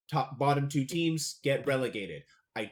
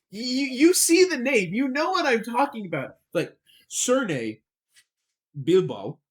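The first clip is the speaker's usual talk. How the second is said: playful hammed-up Australian accent, higher and louder; 8 semitones higher, 7 dB louder than usual. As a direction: ham up an Aussie accent on the team name. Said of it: "I wanna say this in, like, a Australian accent".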